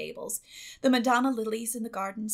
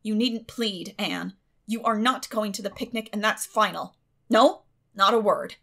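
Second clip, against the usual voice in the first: louder, cold and final; stony refusal; 9 dB louder than usual. A narrator's reading. Guardian refuses the pleading girl, stony. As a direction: shut her down firmly.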